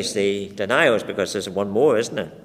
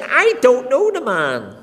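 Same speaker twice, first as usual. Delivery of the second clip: loud, higher, slowed oath; cursing denial; 13 semitones higher, 7 dB louder, slower than usual. Acted. Peter cursing and swearing to the crowd, loud and slow. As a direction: spit it out as a furious vow. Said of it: "He began to curse and swear".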